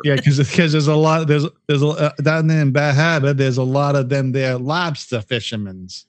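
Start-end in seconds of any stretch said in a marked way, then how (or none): 1.9-6.1 mock Maine accent. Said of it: "they do speak like".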